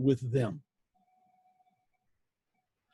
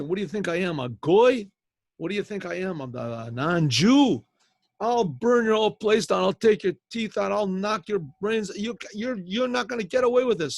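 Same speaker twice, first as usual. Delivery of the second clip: mock outrage, louder and higher; angry customer; 4 semitones higher, 4 dB louder than usual. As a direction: rant like an offended customer banging the counter. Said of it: "starts pounding on the table and saying".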